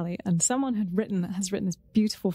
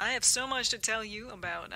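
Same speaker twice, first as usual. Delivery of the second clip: put-on American accent; 5 dB quieter than usual. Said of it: "Your American accent's really good".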